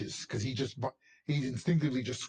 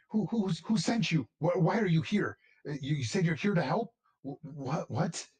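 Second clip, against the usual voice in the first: higher, hurried bewildered questions; confused Northlander; 4 semitones higher than usual. Acted. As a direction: fire off baffled questions.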